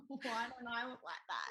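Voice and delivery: mildly hammed-up self-pitying whine; imitating a tearful moan; mock wailing. Acts out wailing in bed.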